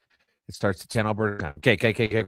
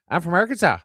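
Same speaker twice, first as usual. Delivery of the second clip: higher, louder Newfoundland accent; 7 semitones higher, 4 dB louder, faster than usual. Shown as a demonstration. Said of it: "speed up how fast I say it and put it in a higher voice".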